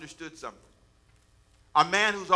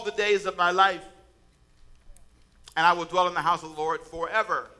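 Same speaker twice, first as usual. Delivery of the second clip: measured, solemn reading of the psalm; scripture reading. Acted. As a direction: read it like holy scripture to the congregation. Reads Psalm 23 aloud.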